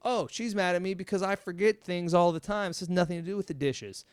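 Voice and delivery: mock lightbulb moment of insight; sudden realization. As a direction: voice the moment it all clicks. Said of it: "you're gonna see it so clearly".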